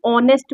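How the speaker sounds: ऑनेस्ट begun on a pure "o", h left out; silent H. Shown as a demonstration. Teacher repeats the rule for students, ऑनेस्ट without the h. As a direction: say ऑनेस्ट with no breath before the vowel. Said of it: "H silent होता है".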